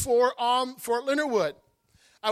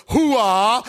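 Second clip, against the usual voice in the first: louder punchy soldier grunt; army cry; 6 dB louder than usual. Pretend. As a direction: bark it like a proud soldier.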